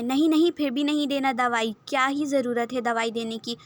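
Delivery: a sharp, loud burst of angry refusal. Acted. Young Hashir angrily refusing the medicine. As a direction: snap out the refusal, then cool off a little. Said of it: "Hashir پھر غصے میں کہتا ہے".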